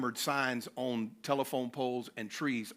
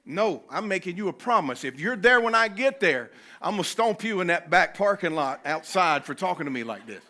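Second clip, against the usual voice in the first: retold furious yell; 5 semitones higher, 8 dB louder than usual. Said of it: "and I'm yelling in Taco Bell".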